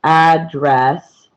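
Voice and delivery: "address" said as two distinct beats; two counted syllables. Shown as a demonstration. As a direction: spell out both syllables of "address" slowly and evenly. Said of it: "still the same amount of syllables".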